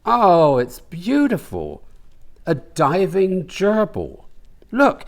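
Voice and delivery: put-on high, delighted old lady; older woman's voice. Mama admires the gerbil tattoo, high delighted voice. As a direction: gush over it in a high voice.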